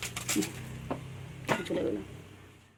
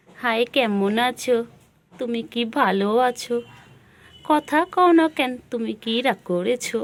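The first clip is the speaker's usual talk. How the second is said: slow sing-song pet talk; 3 semitones higher, slower than usual. Real, not acted. Repeats questions to pet.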